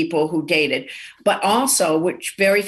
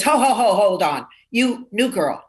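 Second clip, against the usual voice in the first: raised, mock-gruff call to halt; mock bartender challenge. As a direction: stop the new girl in her tracks, imitating a bartender. Bartender stops new waitress.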